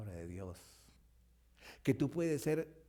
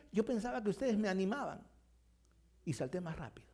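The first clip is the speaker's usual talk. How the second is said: lightly voiced frog; 7 semitones higher than usual. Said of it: "la rana le dice".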